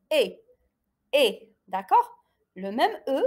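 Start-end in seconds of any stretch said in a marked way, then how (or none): 0.1-1.5 "E" said as a held French é; accented E demonstration. Shown as a demonstration. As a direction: model "E" as closed é. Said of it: "je le prononce".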